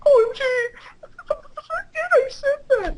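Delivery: high, wailing mock sob; mock sobbing. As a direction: squeal it through fake tears. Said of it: "starting to sob".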